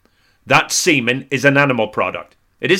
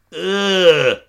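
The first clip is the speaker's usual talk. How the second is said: mock disgusted audience; 6 semitones higher, 3 dB louder than usual. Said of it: "the audience say".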